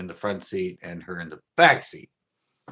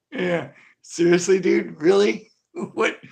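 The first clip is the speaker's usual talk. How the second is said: high, slow, laughing disbelief; embarrassed disbelief; 8 semitones higher, 5 dB louder, slower than usual. Retold or imitated. Driver to staring stranger at the light, high and embarrassed. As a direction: plead helplessly, high and laughing.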